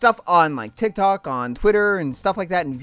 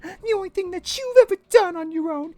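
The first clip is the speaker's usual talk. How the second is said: haughty high mother; 12 semitones higher than usual. Acted. Mother Lusamine scorning Lily, high and haughty. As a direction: look down on her daughter.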